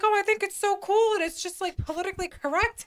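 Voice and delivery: high-pitched imitation of an enthusiastic woman; retold gushing reply.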